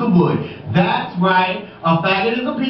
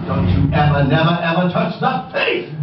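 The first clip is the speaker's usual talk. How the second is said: emphatic warning; 4 semitones lower than usual. Acted. Rules of a queen.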